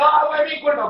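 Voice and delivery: imitation wail of guilt; mock tearful remorse. Son blaming himself at his mother's coffin, mock crying. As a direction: lament it like a crying mourner, hammed up. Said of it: "y ahí están llorando".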